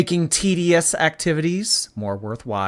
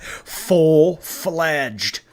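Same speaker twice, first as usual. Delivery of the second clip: mocking imitation; 3 semitones higher than usual. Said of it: "she loves that".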